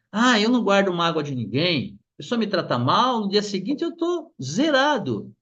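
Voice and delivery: mock-carefree quote, pitch climbing to the end; breezy denial. People claiming they never hold grudges, mock carefree. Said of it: "algumas pessoas falam assim".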